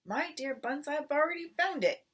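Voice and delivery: crafty. A narrator's reading. Crafty Bean boasting to Bunce, smug. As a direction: lord it over Bunce. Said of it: "said the crafty Bean".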